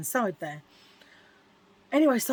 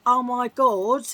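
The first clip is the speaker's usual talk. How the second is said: slow, stunned, slightly louder; own stunned reaction; 3 semitones higher, 5 dB louder, slower than usual. Retold or imitated. Standing alone after the cleaner fled, stunned. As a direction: let it drop out in disbelief. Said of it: "like that".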